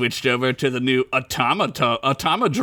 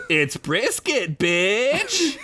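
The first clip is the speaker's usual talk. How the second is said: brash slogan; 6 semitones higher, much slower than usual. Acted. Reads slogan on trucker hat.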